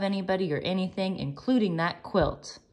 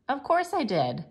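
lightly voiced Penny; 9 semitones higher than usual. A narrator's reading.

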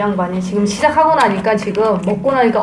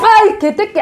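angry outburst; 10 semitones higher than usual. Real, not acted. Sour-food penalty, husband complaining.

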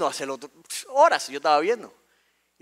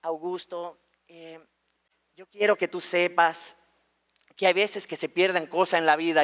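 careful school psychologist; 2 semitones lower, 4 dB quieter than usual. Retold or imitated. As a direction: ease gently toward bad news, with pauses. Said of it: "ella comienza diciendo". (psicóloga pausada y cautelosa)

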